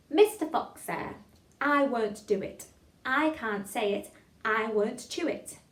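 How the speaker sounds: slow, loud, every word articulated; tongue-twister recitation. Shown as a demonstration. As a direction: chant it deliberately for a class to follow. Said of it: "One more time".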